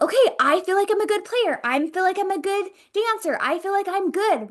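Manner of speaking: a mock-confident young athlete, lightly voiced; self-assured athlete. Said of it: "you're like".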